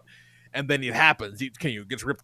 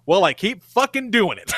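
mock exasperation, higher and louder; exasperated retort; 6 semitones higher, 6 dB louder than usual. Loki insisting to doubters about time slipping, exasperated. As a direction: push back in acted frustration.

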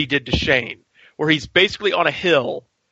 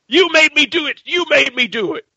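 high, laughing mock voice; mock villain excuse; 10 semitones higher than usual. Rick excusing himself over Shane's body, high laughing mockery. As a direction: giggle out the excuse like a cartoon villain.

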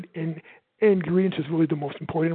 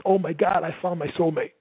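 a bit louder, eager delight; louder, excited. Shown as a demonstration. Sales coach showing a loud, fast talker finding a match, louder. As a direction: say it a touch louder, thrilled. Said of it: "if you speak loud like me and fast".

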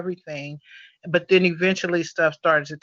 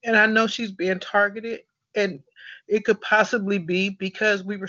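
emotional; 3 semitones higher than usual. Real, not acted. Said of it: "sorry to get emotional".

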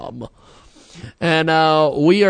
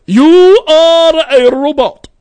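robot voice; 9 semitones higher, 8 dB louder, slower than usual. Retold or imitated. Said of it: "Power Man five thousand is what, what that line's from".

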